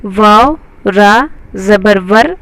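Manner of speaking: slow, syllable by syllable, each letter named; slow spelling-out. Shown as a demonstration. Teacher reading letters slowly to students. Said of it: "हम इसे इस तरह से पढ़ेंगे".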